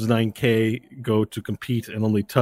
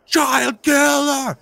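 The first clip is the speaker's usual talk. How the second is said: slow, high-pitched mob chant; crowd chorus; 3 dB louder, much slower than usual. Acted. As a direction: chant it like a hostile stadium crowd. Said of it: "there's this chorus that goes".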